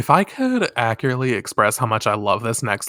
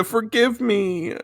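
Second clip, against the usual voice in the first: mock tearful plea, slow; 9 semitones higher, much slower than usual. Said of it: "Minako starts crying".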